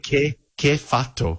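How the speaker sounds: lightly acted Italian shout, slow; retold angry Italian man; mock Italian screaming. Angry Italian man catching the mate at his bin. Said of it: "Screaming at him".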